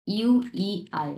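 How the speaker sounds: "ইউইআই" slowly, as three separate sounds; spelled-out sounds. Shown as a demonstration. Teacher breaks down a syllable, sound by sound. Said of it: "এটা হচ্ছে উচ্চারণের সময়".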